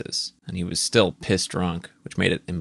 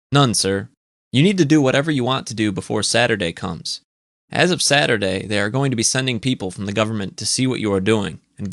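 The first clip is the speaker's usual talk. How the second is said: put-on Eastern accent; 2 semitones higher, 3 dB louder than usual. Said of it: "An Eastern accented voice".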